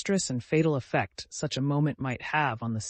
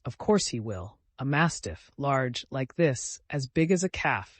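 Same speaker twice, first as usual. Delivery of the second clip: shouted by several voices. Acted. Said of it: "shouted several voices".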